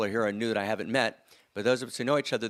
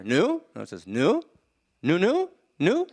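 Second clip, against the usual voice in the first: emphatic nu; 8 semitones higher, 6 dB louder, slower than usual. Acted. Brothers greet in elevator.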